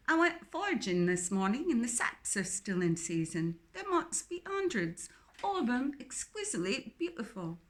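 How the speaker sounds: breathless delight over a crate of mushrooms; excited. Acted. Philippa showing off her foraged mushrooms, gushing excitedly. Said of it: "she said with excitement".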